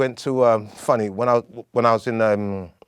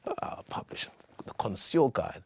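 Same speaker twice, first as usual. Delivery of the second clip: put-on posh English accent; 10 dB quieter than usual. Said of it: "that very pronounced English accent".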